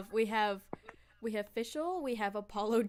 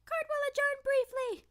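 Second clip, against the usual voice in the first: higher judge voice. Acted. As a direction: declare it like a judge. Voicing the judge.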